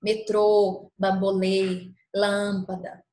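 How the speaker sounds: "Metrô, bambolê, lâmpada" with closed ô, ê, â; closed accented vowels. Shown as a demonstration. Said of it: "pronunciaremos o som de forma mais fechada". ("Metrô, bambolê, lâmpada" com vogal acentuada fechada)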